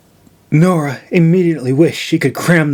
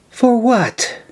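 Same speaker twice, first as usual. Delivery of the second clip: scoffing; 9 semitones higher than usual. A narrator's reading. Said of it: "she scoffed".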